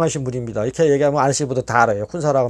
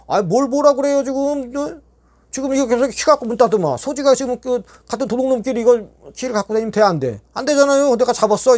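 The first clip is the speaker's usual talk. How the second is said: 높고 큰 목소리로 대드는 말다툼; 밀리지 않고 쏘아붙이기; 따지는 항의; 8 semitones higher than usual. Retold or imitated. 주임과 언성 높여 다툼. (주임에게 높은 목소리로 따지며 상 요구)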